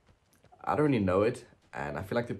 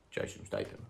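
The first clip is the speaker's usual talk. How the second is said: whispered mock Michael Caine; breathy hushed Caine impression try; 6 dB quieter than usual. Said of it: "No, that's Michael Caine".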